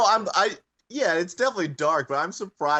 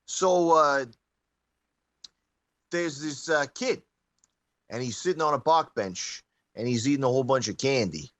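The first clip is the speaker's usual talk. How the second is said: put-on light New York Italian comic accent. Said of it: "thick New York Italian accent when he tells it".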